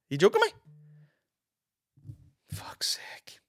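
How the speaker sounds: slow, unvoiced exasperated aside; muttered mock annoyance; whispered grumble. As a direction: whisper it under your breath, fed up. Grumbling aside after fan encounter.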